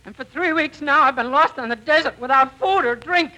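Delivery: hammed-up starving prospector; old prospector voice. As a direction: wail it like a starving old miner. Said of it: "You're going to be an old prospector".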